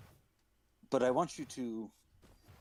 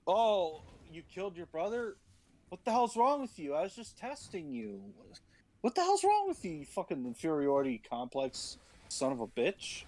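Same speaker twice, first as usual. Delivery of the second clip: mock God voice; 4 semitones higher than usual. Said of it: "He's like".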